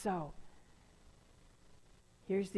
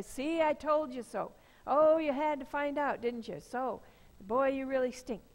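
higher, sneering I-told-you-so; mock scolding; 3 semitones higher than usual. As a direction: rub it in like a smug parent. Imagined scolding father, mocking.

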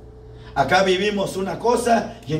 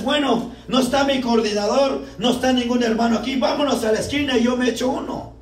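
sneaky drinker; 5 semitones higher than usual. Retold or imitated.

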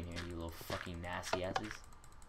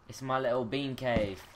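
higher, louder, slow proud sing-song; gleeful, slow; 6 semitones higher, 8 dB louder, slower than usual. Real, not acted. Proud of cave.

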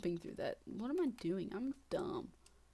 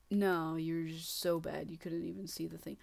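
mock putdown; 4 semitones lower than usual. Deflating reply to own excitement.

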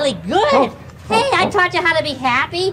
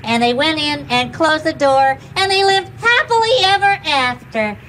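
story narration; 3 semitones higher than usual. Acted. Tells a story.

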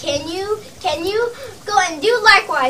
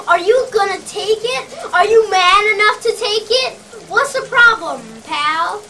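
higher-pitched, challenging demand; aggressive goading; 4 semitones higher than usual. Acted. Sales boss daring his men to take the money, aggressive goading. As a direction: goad them with rising pressure.

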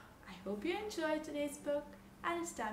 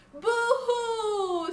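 high, loud mock wail; =drawn-out baby boo-hoo; crying baby; 11 semitones higher, 13 dB louder than usual. A narrator's reading. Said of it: "said the baby".

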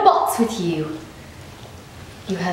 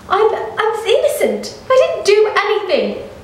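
frantic pleading; 12 semitones higher, 5 dB louder than usual. Acted. Arrested man begs agents he's innocent, frantic. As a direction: plead with your last breath of hope.

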